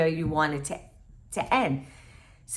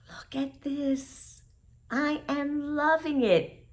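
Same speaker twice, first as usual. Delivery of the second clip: excited gasp; 8 semitones higher, slower than usual. Real, not acted. Gasps at her own knitting.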